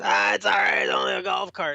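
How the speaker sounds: mock a breezy drinker waving off worry; dismissive drinking driver. Drinking cart driver reassures his worried passengers, breezily dismissive.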